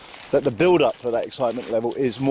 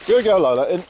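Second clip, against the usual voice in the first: high, louder call to the dog; 5 semitones higher, 3 dB louder than usual. Real, not acted. Dog owner calling Lola back in on the walk.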